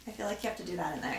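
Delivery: soft, fast whisper. Real, not acted. Sister whispering an aside to the others. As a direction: whisper it quickly.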